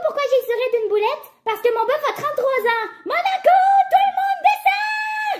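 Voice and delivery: lightly voiced Thérèse with shouted ending. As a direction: quote Thérèse, shout the last part. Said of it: "c'est Thérèse".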